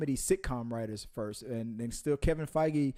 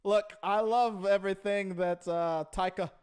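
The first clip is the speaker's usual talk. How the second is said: higher-pitched, badly faked Aussie accent drifting towards Irish; Chris Hemsworth; 4 semitones higher than usual. Co-host role-playing the Thor star praising his director, wobbly Aussie accent. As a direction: have a hesitant go at an Australian accent. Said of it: "No, like, now is that Irish?".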